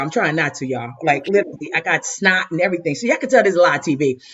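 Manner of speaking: laugh-through-the-tears honesty; really crying. Real, not acted. Telling everyone she's really crying, tearful. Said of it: "I'm really crying".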